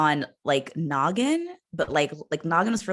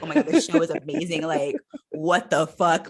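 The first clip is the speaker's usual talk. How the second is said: fast and much higher at first, then slowing on the swear; a hooked kid raving about the show; gushing excitement; 6 semitones higher, 3 dB louder than usual. Retold or imitated. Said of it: "I was like".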